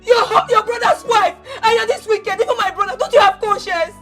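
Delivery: heated tearful accusation; ranting. Acted. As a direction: pour out the grievance at uncle. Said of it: "When you are done ranting".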